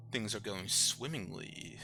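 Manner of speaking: a lightly voiced proper gentleman, unhurried; a hint of a posh monster host. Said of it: "accent that you do".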